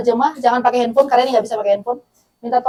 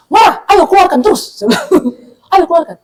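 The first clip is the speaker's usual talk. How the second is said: high, loud mock egging-on; urging on; 6 semitones higher, 4 dB louder than usual. Coworker urging an angry colleague to vent, loudly encouraging. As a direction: push them to let it all out.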